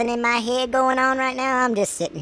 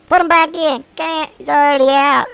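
mock dismay; 5 semitones higher, 6 dB louder than usual. Acted exchange over unwanted newborn.

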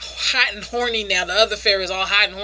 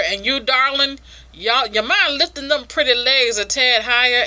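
mock Southern sweet-talk; lightly hammed Southern charmer; Southern accent. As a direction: coax in a put-on Southern twang. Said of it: "I guess he's a Southern Weevil".

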